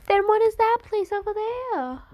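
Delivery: surprised high-voiced question; puzzled question. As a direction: ask it high and confused. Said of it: "being like".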